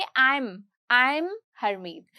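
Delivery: "I am" slurred into "I'm" in a relaxed tone; casual tone. Shown as a demonstration. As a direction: say your name offhand, the am clipped to an m. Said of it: "अगर मैं casual tone में बोलूं तो मैं बोलूंगी".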